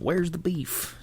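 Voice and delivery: high, drawn-out quoted slogan; quoting the famous ad line. Retold or imitated. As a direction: sing out the catchphrase high. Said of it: "People remembered the slogan".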